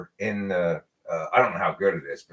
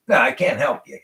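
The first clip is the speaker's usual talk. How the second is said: a touch of curt refusal, "No" snapped a little louder; curt dismissal; 5 semitones higher, 4 dB louder than usual. Retold or imitated. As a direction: imitate the old man brushing him off. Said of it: "like, dismissing me".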